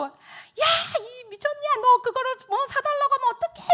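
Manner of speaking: retold mother's high-pitched outburst; high, exasperated reenacted telling-off; flabbergasted scolding. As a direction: scold the son, utterly aghast. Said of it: "저는 또 막 너무 황당해가지고".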